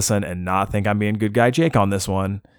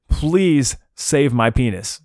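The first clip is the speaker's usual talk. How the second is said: drawn-out, higher-pitched mock plea; mock yelling; 4 semitones higher, much slower than usual. Patient bursting into the emergency room, hammed-up desperate yell. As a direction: plead slowly and higher, without real volume. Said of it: "pop in the door yelling it".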